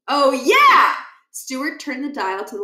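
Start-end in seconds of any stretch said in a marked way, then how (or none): 0.1-0.9 excited. Acted. Stuart remembering.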